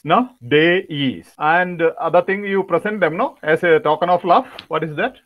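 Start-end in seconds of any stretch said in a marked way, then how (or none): 0.5-1.3 "Days" drawn out, falling, with a long AY; correct pronunciation. Shown as a demonstration. Trainer repeats dais as written, drawn-out correct pronunciation. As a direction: stretch the AY in "Days". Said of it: "As it is written there".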